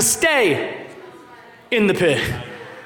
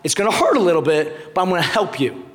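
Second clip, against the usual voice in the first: calming dad; 6 semitones lower than usual. Retold or imitated. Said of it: "I'm like".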